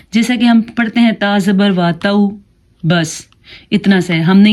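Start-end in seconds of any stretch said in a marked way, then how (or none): 1.1-2.3 تو as a soft, short glide "tau"; soft reading. Shown as a demonstration. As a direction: glide gently through تو without holding it. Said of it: "نرمی سے پڑھنا". (نرمی سے، مختصر تو)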